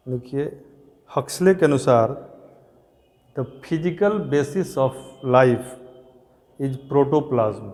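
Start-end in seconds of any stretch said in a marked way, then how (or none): 3.3-7.7 very slow, each word set apart for writing down; slow dictation. Shown as a demonstration. Teacher dictating the definition to the class, very slowly.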